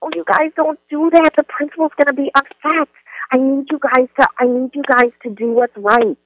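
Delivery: high, pleading whine; teacher pleading in a high child voice. Shown as a demonstration. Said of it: "it sounds something like this".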